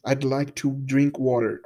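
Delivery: "I'd like to drink water" slowed, each word clear with "I'd" as one syllable; slow clear demo. Shown as a demonstration. Teacher slowly modelling the example sentence for student. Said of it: "sai só um d".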